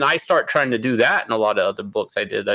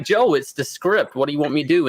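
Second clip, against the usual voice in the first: exasperated reply; 5 semitones higher than usual. Retold or imitated. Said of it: "And I'm like".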